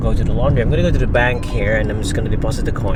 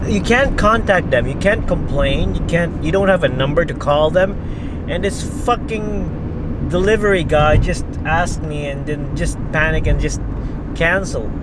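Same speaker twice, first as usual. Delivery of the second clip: exasperated, higher-pitched rant; worked up and venting; pissed off; 6 semitones higher than usual. Real, not acted. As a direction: complain with real frustration. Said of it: "Pissed me off".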